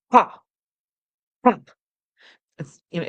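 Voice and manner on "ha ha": belly ha. Shown as a demonstration. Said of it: "pulling in your abdominal muscles quickly".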